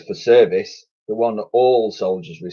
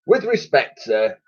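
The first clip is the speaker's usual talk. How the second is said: timid; 5 semitones higher than usual. Acted. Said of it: "began Titch timidly".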